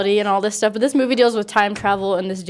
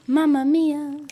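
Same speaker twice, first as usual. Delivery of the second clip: excited gasp; 7 semitones higher, much slower than usual. Real, not acted. Excited at title.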